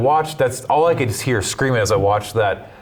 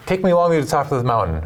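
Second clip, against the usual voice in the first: lightly raised, quick wheedling snake voice; snake's plea; 6 semitones higher, faster than usual. Retold or imitated. A snake in the pundit's fable begs a ride, lightly voiced and quick. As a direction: coax like a sly snake, pitched up and hurried.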